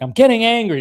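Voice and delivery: mock angry mom. Repeating Mama's threat to Carl, hammed-up anger. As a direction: ham up the fed-up mother. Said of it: "That's what she said. She's like".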